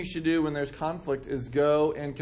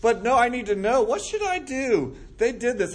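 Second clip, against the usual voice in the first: higher, louder, pleading for advice; mock worried plea; needy fretting; 7 semitones higher, 4 dB louder than usual. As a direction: act anxious, begging to be told what to do. Acting out an anxious gossiper.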